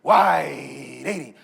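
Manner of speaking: low, drawn-out quarterback shout; imitating a quarterback barking signals; quarterback cadence. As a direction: call the snap count, stretching each word long. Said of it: "Quarterback goes through the cadence".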